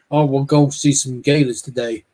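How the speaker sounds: put-on Florida accent. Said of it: "'cause the accent I've noticed".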